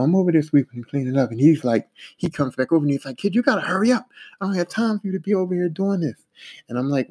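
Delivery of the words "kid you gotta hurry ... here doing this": higher-pitched retold hurrying; impatient foreman. Foreman rushing the kid at cleanup, impatient.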